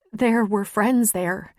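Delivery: a touch of crying, drawn out slowly; crying, gasping a little. A narrator's reading. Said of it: "still crying and gasping a little".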